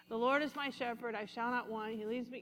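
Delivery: quiet, hurried, mechanical recitation with no meaning in it; rote mumble. Shown as a demonstration. Preacher mocking rote Bible reading with a quiet, bored mumble. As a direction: rattle it off softly like a chore. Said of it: "let's not be like that".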